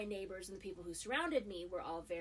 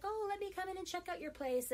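creepy man; 11 semitones higher than usual. Retold or imitated. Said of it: "he's like".

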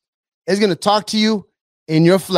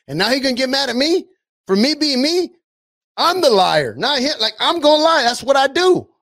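the devil defending himself with mock outrage; the devil arguing; 3 semitones higher than usual. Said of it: "what the devil's gonna say".

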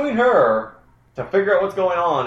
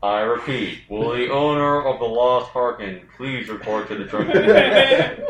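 flat echoey pa page; 3 semitones lower than usual. Pretend. Announcement repeated.

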